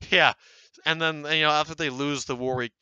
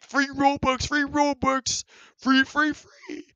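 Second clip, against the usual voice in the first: squeaky, much higher voice that cracks and breaks off; 13 semitones higher, 4 dB louder, slower than usual. Pretend. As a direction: chant it up high until the voice cracks. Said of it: "that was a horrible voice crack".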